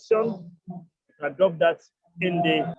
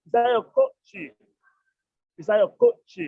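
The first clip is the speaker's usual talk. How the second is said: slow model phrase; 3 semitones higher, slower than usual. Shown as a demonstration. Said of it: "you say".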